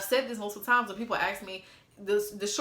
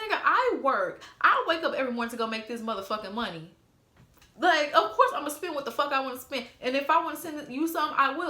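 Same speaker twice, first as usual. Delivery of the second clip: raised-pitch indignant scolding; retold angry retort; 4 semitones higher than usual. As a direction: argue back with mild heat. Acting out angry argument with husband.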